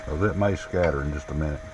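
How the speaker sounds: muffled behind a face shield; speaking through a face shield, muffled. Real, not acted. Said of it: "If I sound muffled".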